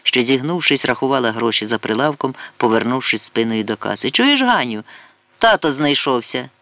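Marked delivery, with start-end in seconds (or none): 4.1-6.5 calling out. Acted. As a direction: shout it out as a joke. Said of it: "крикнула вона і розсміялася". (жартівливо гукає до Гані)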